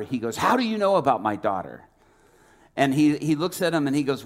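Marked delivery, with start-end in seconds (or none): 0.4-1.8 mildly indignant retold question; angry father. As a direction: act a father startled into a touch of anger. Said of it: "he's getting more angry".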